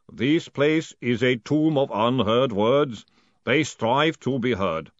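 slow, ponderous rumble; ponderous golem rumble. A narrator's reading. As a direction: rumble it slowly and heavily. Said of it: "rumbled the golem ponderously".

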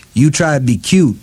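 muffled through clenched teeth. Acted. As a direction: talk around a rope in the teeth. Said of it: "she said in a muffled voice".

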